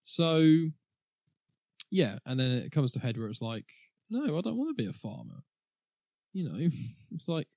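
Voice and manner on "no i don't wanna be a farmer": put-on high, whining teenage protest; mock a sulky kid refusing; whiny teen voice. Acting out grandson's complaint.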